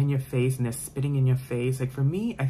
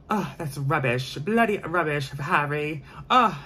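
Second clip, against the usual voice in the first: put-on British accent; 3 semitones higher, 3 dB louder, slower than usual. Reader getting into the book, hammed-up British accent. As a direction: play a British Harry Potter character. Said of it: "I do the accent and everything".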